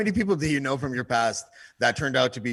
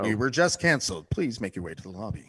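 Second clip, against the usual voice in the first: mock announcer; 4 semitones lower, 4 dB quieter than usual. Mock announcement continuing the radio bit.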